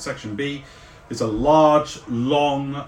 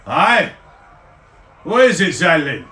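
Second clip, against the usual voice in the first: louder, cheery soldier reply; Carl voice; 3 semitones higher, 7 dB louder than usual. Acted. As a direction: answer a call from the line. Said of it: "looks over his shoulder".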